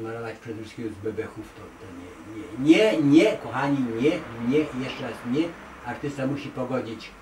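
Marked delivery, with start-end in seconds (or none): 2.0-5.4 loud, repeated nie, nie, nie, hammered home; emphatic, insistent no. Real, not acted. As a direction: refuse firmly, as to a room of students. Emphatic rejection of gut-only art. (stanowcze, głośne „nie, nie, nie”)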